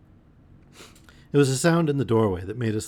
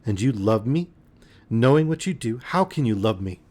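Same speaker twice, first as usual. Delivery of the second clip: almost savage. Acted. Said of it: "turned on me almost savagely".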